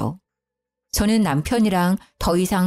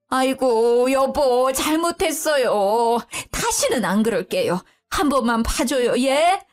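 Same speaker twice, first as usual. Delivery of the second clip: begging mother-in-law; 4 semitones higher than usual. Acted. Mother-in-law begs husband.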